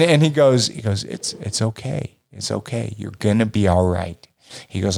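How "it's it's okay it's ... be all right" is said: soothing. Retold or imitated. Father soothing panicked son.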